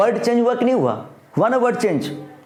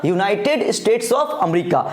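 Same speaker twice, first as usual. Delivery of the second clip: slow dictation; much slower than usual. Acted. Dictating slowly.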